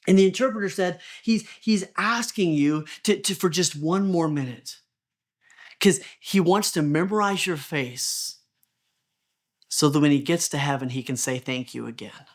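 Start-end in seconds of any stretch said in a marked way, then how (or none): 1.2-12.3 tender retelling. Retold or imitated. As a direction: let the words sink in gently. Moving climax of wheelchair story.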